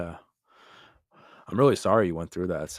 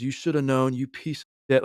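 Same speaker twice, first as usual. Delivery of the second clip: higher, cutting self-critic voice; harsh adult self; 4 semitones higher than usual. Retold or imitated. Therapist's exercise, adult Doug berating little Doug, harsh higher voice. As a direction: sneer it down at your younger self. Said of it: "Imagine now adult Doug walks into the room".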